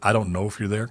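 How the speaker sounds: ordinary delivery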